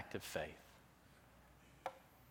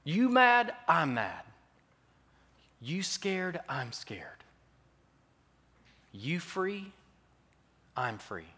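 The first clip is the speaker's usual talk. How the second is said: mother's rising vow; 5 semitones higher, 5 dB louder, slower than usual. Retold or imitated. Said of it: "She says".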